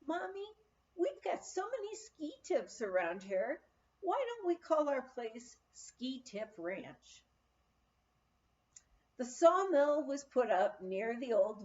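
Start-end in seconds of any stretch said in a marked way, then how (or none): 0.1-7.2 lightly voiced little boy, higher on Mommy; a mother gently playing her young son; child's voice. Son suggesting the ranch name to his mother, lightly voiced small boy. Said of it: "Sonny said one day".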